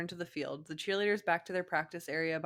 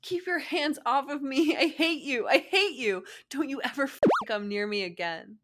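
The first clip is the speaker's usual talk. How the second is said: furious yell; 8 semitones higher, 8 dB louder than usual. Acted. Girlfriend yelling at boyfriend.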